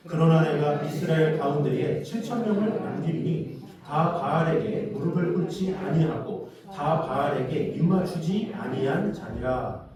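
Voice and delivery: loud, drawn-out congregational reading; scripture recitation. Real, not acted. Preacher leads congregation through the verse, loud slow recitation. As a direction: recite the verse slowly and loudly, leading others. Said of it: "시작".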